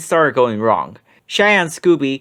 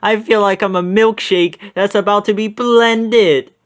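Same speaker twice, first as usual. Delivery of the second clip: higher, louder panicky Shaggy; Shaggy's voice; 6 semitones higher, 4 dB louder than usual. A narrator's reading. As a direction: wail it while being tossed. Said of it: "Shaggy cried".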